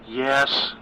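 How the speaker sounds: a hint of nervous daughter; Gwen's voice. Narrator voices daughter Gwen.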